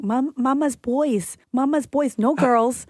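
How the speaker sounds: imitated toddler. Her child keeps correcting her, imitated toddler insistence. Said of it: "As Sia kept saying".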